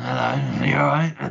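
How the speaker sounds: slow, rough, drawn-out movie-villain voice. Retelling looking at people through a face mask: Bane voice. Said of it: "like fucking Bane from Batman, just going".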